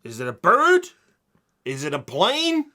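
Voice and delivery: dramatic announcer. Acted. Mock Superman opening.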